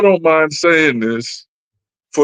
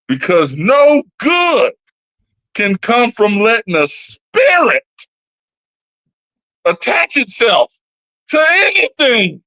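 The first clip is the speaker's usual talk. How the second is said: emphatic warning; 4 semitones higher than usual. Real, not acted. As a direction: warn a friend with full force. Stern warning.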